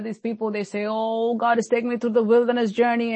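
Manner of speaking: lightly mimicked whiny believer, held tone; mocking. False teacher making fun of people who suffer, mocking. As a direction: imitate a preacher ridiculing others' words. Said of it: "he started making fun of them".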